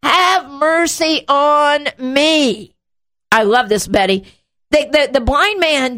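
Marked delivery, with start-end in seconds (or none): 0.0-2.8 high plea, slowing at the end; imitating a persistent yell, pitched up; acted louder yell. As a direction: call out insistently, stretching the final appeal. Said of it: "So he yells louder".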